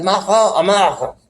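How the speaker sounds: laughing raspy Trump voice; raspy Trump impression. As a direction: rasp it out like Trump. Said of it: "It sounds like that or something".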